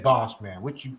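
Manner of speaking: lightly voiced low impression of the friend; low mock of friend. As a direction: imitate him, low and muttered. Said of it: "He be like".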